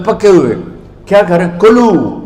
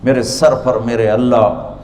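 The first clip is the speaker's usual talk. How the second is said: humble answer; 3 semitones lower than usual. Acted. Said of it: "وہ آگے کہے گی".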